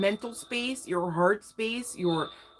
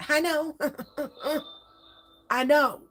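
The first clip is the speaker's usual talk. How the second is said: higher, louder amused insistence; laughing; 8 semitones higher, 3 dB louder than usual. Real, not acted. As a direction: laugh it off while insisting you agree. Laughing agreement with viewers.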